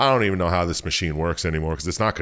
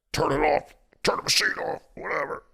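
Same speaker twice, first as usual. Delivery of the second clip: higher, lightly hammed-up gruff soldier brushing it off; hammed-up Carver voice; 11 semitones higher, faster than usual. Podcast host voicing Carver giving up the machine, lightly hammed-up. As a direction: toss it off like a careless soldier in a mock voice.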